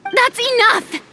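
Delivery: high, sharp call to stop; sharp command. Acted. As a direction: cut the quarrel dead. Stopping a fight.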